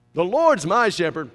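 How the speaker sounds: "Lord's" punched loud; emphatic declaration. Acted. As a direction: declare it forcefully, leaning on "Lord's". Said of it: "how David would be saying this".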